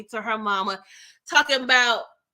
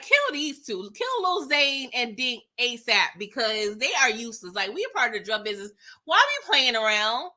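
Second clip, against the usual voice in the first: aggravated rant. Real, not acted. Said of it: "Like, I'm so aggravated".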